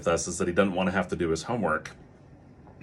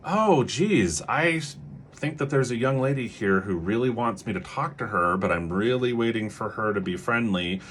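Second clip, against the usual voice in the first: pretend not engaging; 2 semitones higher than usual. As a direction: play at withholding attention, musing aloud for the child to hear. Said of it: "what that might look like might be like".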